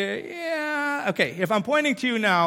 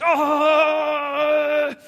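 startled oh; 8 semitones higher, 6 dB louder than usual. Retold or imitated. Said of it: "some of you are just gonna be like".

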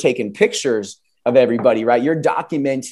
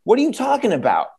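high, fast mock disbelief; lightly voiced friend baffled; incredulous friend; 5 semitones higher than usual. Friend doubts the driver's claim, high mock disbelief. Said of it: "He's like".

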